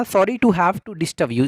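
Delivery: very slow, careful teacher read; slow model phrase. Shown as a demonstration. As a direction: spell it out slowly for the class. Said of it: "इस तरीके से आप कह सकते हैं". (धीमा, साफ़ उच्चारण)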